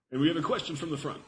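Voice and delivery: quick radio DJ announcement. Pretend. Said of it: "That's my D J voice".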